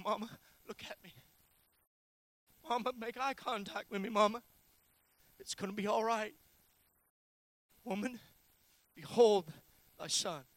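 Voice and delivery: gently coax, pausing between short phrases; tender imagined Jesus. Acted. Jesus on the cross to his mother, tender reassurance. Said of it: "I wonder if maybe he was saying".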